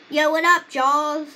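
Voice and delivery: high, loud hello to the shark; cheery greeting. Pretend. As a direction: call out to him like an old buddy. Greeting the stuffed shark Jaws.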